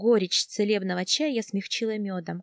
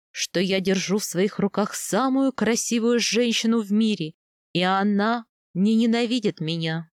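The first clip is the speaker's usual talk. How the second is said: earnest male role with a little more force; lightly voiced husband, fervent; 4 dB louder than usual. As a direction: answer as the adoring husband. (пылкий ответ мужа)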